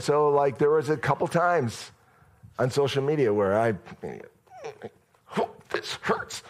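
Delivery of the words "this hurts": hushed whisper. Retold or imitated. Pained aside about social media.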